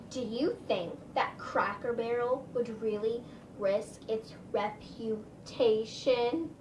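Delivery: slow, snooty mock waitress; attitude. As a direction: drag out reputation with condescension. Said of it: "she said in an attitude".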